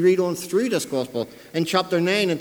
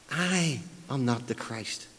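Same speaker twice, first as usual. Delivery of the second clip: "I" held long, then a softer, lower finish; emphatic I; 5 semitones lower, 8 dB quieter, slower than usual. Retold or imitated. Preacher quoting John's denial, drawn-out emphatic "I". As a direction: dwell on "I", slowly and softly. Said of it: "is emphatic once again".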